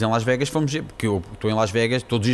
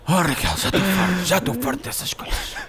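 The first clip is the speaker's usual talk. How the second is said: high-pitched exasperated complaint, hammed up; mock fed-up whining; 7 semitones higher than usual. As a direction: whine as if worn down by a partner. Acts himself whining at Raquel's demands.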